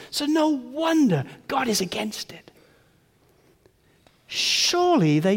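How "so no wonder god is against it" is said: hushed, unvoiced whisper; grave whispered emphasis. Real, not acted. Whispered conclusion.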